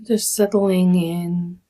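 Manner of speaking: calm, measured meditation guide with long pauses; guided meditation. Acted. Meditation teacher leading listeners through a body scan, calm guiding voice. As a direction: guide them gently through settling, phrase by phrase.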